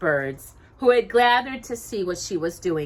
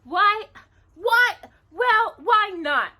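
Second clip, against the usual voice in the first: higher, louder, slow protesting; defensively; 14 semitones higher, 6 dB louder, much slower than usual. Acted. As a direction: stand up for yourself, pitched high. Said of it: "Cinderella said defensively".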